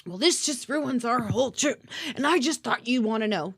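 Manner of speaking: a light, whiny mock of the complainer; mocking customer. Mocking the whiny customer's complaint with a light sneer. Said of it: "but whatever".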